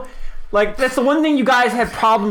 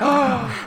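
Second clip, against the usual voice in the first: shocked gasp; 7 semitones higher than usual. Acted. Bystander drops bowl in shock.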